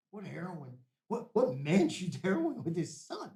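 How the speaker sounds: slow angry outburst at his father; retold furious shout.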